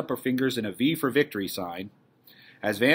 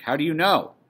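louder, higher question over a din; raised voice; 5 semitones higher, 6 dB louder than usual. Acted. Missus Frank questioning Meep amid the pandemonium, calling out. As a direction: make yourself heard above the excitement. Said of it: "tries to make herself heard above the excitement".

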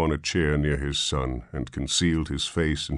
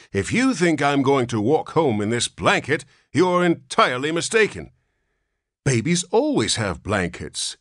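put-on cranky old man; 10 semitones higher, 5 dB louder than usual. A narrator's reading.

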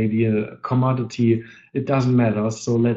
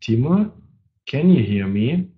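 raised, questioning call to check the line; 2 semitones higher, 4 dB louder than usual. Real, not acted. Host calling his late co-presenter over the webinar, calling out. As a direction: call out to someone who may not hear.

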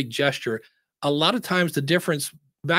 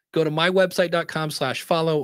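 clear, careful. Shown as a demonstration. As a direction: give the web address clearly, word by word. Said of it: "So say it slowly and clearly".

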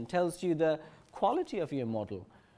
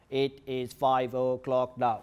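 flat, slow robotic voice; 3 semitones lower, slower than usual. Shown as a demonstration. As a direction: speak it like a monotone machine. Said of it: "not speaking like a robot".

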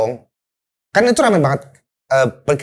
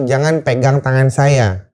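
slow, lower, deliberate command; clear instruction; 4 semitones lower, slower than usual. Retold or imitated. Survivor instructing a panicking man, slow clear command. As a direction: spell out the order word by word. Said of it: "instruksi jelas tuh".

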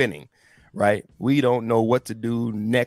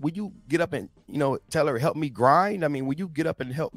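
higher, hurried street-slang complaint; frantic Martha in slang; 8 semitones higher than usual. Retold or imitated. Martha begging Jesus to make Mary help, higher and hurried. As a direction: nag him to make her sister hustle. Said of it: "She like".

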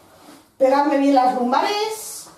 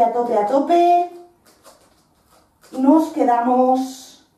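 barking gym coach. Real, not acted. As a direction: drive the last rep home. Coach pushing final rep.

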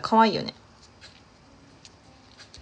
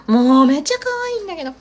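higher, louder, with めっちゃ stretched out long; gushing louder; 8 semitones higher, 5 dB louder than usual. Real, not acted. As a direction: lean into めっちゃ and savour it.

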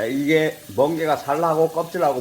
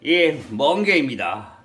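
Gyeongsang dialect; 2 semitones lower, slower than usual. Retold or imitated. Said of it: "예, 경상도 사람이".

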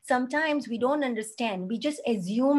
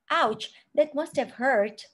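validating sympathy. Shown as a demonstration. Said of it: "you could validate by saying".

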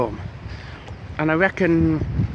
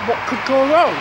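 mock carefree; 7 semitones higher, 6 dB louder than usual. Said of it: "I thought".

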